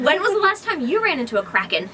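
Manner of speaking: said through laughter; amused rhetorical question, laughing. Real, not acted. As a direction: tease with a laugh.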